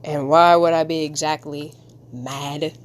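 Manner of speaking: lightly deepened character voice; low and measured, as the comic man; deep voice. Acted. Comic man answering why he'd be mad, deep voice. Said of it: "Give him, him my deep voice".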